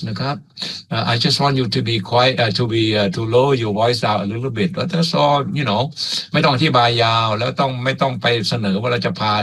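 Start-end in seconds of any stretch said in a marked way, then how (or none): 0.9-5.8 slow, mild explanation in English; polite, calm. Acted. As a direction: reason with them nicely. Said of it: "เราก็คุยดีๆ". (คุยดีๆ อย่างสุภาพ ช้าๆ)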